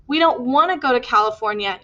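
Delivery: mildly emphatic son. Acted. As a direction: insist on every word. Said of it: "Eugene said emphatically".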